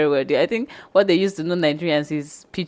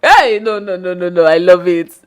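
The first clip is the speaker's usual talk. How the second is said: delighted protest; 9 dB louder than usual. Real, not acted. Laughing protest at friend.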